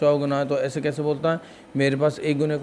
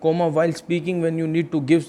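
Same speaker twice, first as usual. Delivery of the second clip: slow, deliberate teacher reading out English; slow English dictation; much slower than usual. Shown as a demonstration. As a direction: spell it out slowly for the class. (धीमे-धीमे अंग्रेज़ी में पढ़ाते हुए)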